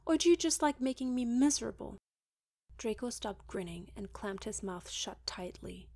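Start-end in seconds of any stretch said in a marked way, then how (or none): 0.1-2.0 loud, high, spitting anger; spat. Acted. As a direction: spit it at him furiously. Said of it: "she spat".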